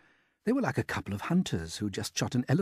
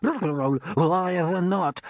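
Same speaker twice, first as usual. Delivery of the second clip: a much higher, louder put-on aunt's voice, excited; Aunt Sponge; 7 semitones higher, 6 dB louder than usual. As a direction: play the greedy aunt gaping at the peach.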